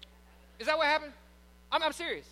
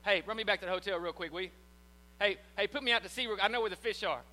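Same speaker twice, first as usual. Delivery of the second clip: Peter, cocky; 3 semitones lower than usual. Retold or imitated. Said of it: "You don't think Peter thought this".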